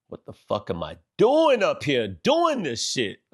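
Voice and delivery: imagined inner voice. Retold or imitated. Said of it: "do they think".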